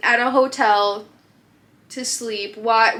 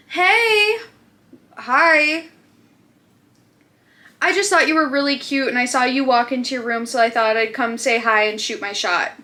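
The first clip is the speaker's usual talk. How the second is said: imitating the driver. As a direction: play the creepy driver sweetly. DoorDash driver at her door.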